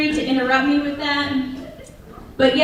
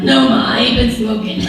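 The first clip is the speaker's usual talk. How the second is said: sarcastic; 5 dB louder than usual. Retold or imitated. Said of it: "wasn't the wisest".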